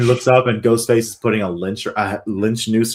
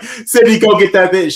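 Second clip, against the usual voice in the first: high, louder imitated command; mock urgent order; 9 semitones higher, 5 dB louder than usual. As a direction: call out an urgent order, acted. Retold order from fallen Brenda.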